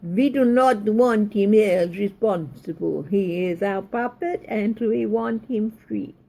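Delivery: slow, hammed-up mock Russian accent; bad Russian accent. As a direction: play a lightly voiced Russian villain, deliberately badly. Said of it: "I'll do my very worst Russian accent".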